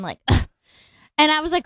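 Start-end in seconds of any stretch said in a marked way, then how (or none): 0.3-0.5 huffing and puffing in mock annoyance; imitated huff. Wife imitating her sleeping husband settling back down, mock huffing. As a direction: put on an exasperated huff. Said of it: "like, huffing and puffing".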